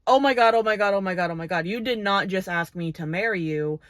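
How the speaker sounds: retold freak-out, loud burst then easing; mock panic, opening loud. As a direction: act out someone stunned by a proposal. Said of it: "Shiloh reasonably freaks out".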